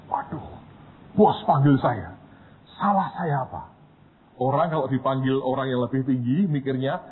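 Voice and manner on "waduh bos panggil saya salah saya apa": frightened student. Retold or imitated.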